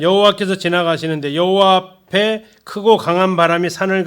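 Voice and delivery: solemn scripture recital; scripture reading. Acted. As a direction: proclaim the verse to the congregation. Reads scripture aloud.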